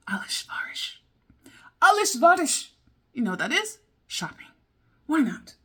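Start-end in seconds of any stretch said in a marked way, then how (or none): 0.1-1.0 whispered word. Shown as a demonstration. Teaching herself Turkish words, whispering alışveriş. 1.8-2.7 alışveriş called out high and loud; excited exclaim. Shown as a demonstration. Learner repeating her new Turkish word, excited exclaim.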